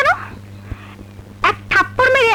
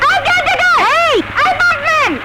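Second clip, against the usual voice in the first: calling out; 6 semitones higher, slower than usual. Acted. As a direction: yell for the caretaker to come. Calling the caretaker from afar.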